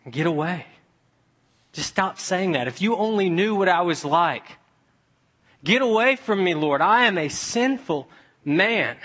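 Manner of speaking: pleading, rising to a cry; Peter, ashamed, pushing the Lord away; anguished Peter. Acted. Peter to Jesus, crying out in shame.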